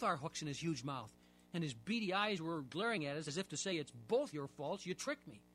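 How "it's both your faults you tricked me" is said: taunting fish. Acted. The caught catfish mocking both boys, slow and sly. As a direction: gloat like a sly old catfish.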